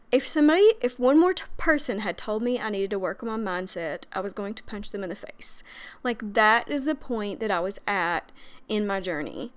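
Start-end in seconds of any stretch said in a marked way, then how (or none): 4.1-5.6 softer, whispered confession; whispered aside. Real, not acted. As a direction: drop to a whisper for the punchline. Confessing a violent urge.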